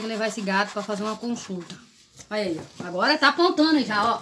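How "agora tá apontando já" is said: laughing. Real, not acted. Mother showing the cat's mischief.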